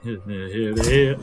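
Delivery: garbled babble, mouth stuffed; mouth full. Pretend. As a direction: gabble like a mouthful of crabs. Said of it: "what I sound like with a mouthful of crabs".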